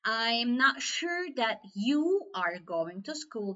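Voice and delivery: "you" leaned on and drawn out; slow sentence with the weight on "you"; stress on you. Shown as a demonstration. Teacher doubting that it is really you going, stress on you. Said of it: "be sure that you are going".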